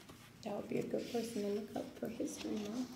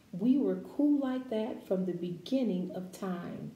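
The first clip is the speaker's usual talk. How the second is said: slow, expressive picture-book read-aloud; reading to children; 3 dB louder, slower than usual. Acted. Teacher reading a picture book to her class, expressive read-aloud.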